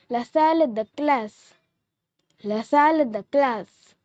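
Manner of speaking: la salle de classe, lah SAL duh KLAS; French la salle de classe. Shown as a demonstration. Teacher teaching viewers the French word la salle de classe, clear demo. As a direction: model la salle de classe for learners. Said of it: "We say classroom in French".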